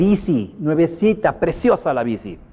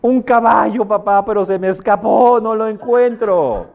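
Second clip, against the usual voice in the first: put-on higher, louder eager kid voice; excited child; 7 semitones higher, 4 dB louder than usual. Happy son tells his father the pony escaped, excited child. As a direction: blurt it out like a thrilled little boy.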